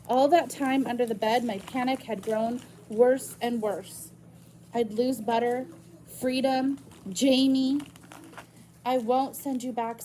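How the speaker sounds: reading a novel aloud to the class; story narration. Acted. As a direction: tell the story to students. Reads novel chapter aloud to class.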